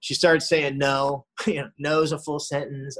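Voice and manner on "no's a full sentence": lightly imitating his mother's firm line; a hint of mom laying down the rule; mock mom. Son mocking his mother's new boundary, lightly imitated.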